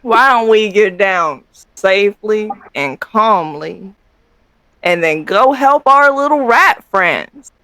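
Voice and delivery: lightly voiced little companion creature; companion character. Companion urging a player to go help rat friends, lightly voiced. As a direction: gently coax them as a small companion, slightly put-on voice.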